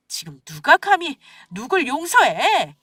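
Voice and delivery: measured furious disbelief; slow cold fury. Acted. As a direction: spell out that he has no right to ask. Wife refusing husband's plea.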